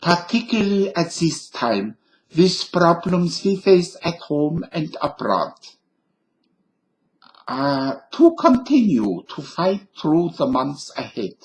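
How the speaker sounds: a hint of an old German professor; lightly voiced Einstein, mild accent; Einstein impression. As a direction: read it like a gentle German scientist. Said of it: "Albert Einstein".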